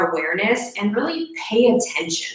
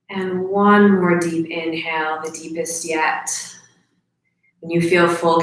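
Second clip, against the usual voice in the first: calm, slightly lowered meditation voice with long pauses; guided breathing meditation; 2 semitones lower than usual. Real, not acted. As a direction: lead them gently through each breath, leaving space.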